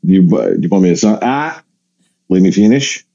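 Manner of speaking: halting mock Aussie; Australian accent. Australian passenger cutting in on the comedian, mock Australian accent. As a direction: imitate an Australian insisting on the floor. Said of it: "I apologize to my Australian listeners".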